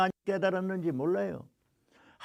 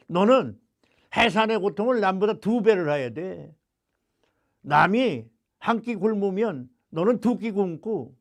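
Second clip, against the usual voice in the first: louder, stern command; stern God's voice; 2 semitones higher, 4 dB louder than usual. Retold or imitated. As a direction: preach it hard as God's demand. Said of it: "주시는 말씀이".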